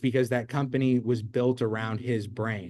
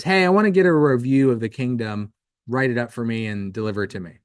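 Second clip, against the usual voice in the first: louder royal order, then brisk; commanding king; 6 dB louder, faster than usual. Acted. King ordering his squire to write a review, commanding. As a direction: boss the squire around like a king.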